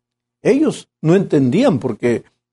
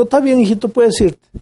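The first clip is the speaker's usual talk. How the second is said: forgiving father; 8 semitones higher than usual. Acted. Father forgiving his son.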